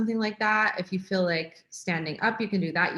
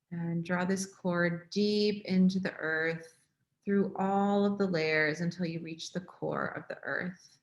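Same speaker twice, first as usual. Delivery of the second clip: guided meditation. Real, not acted. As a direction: ease them gently into the breath, unhurried, softening.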